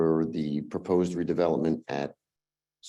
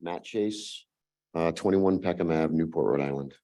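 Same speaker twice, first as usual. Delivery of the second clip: slightly hoarse, voice giving out. Real, not acted. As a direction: talk through a tired, failing voice. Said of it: "I'm losing my voice a little bit".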